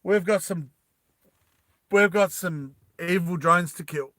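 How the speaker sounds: wounded Tommy rallying his squad with a yell. Retold or imitated. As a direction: shout them forward. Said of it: "Tommy yells out and he goes".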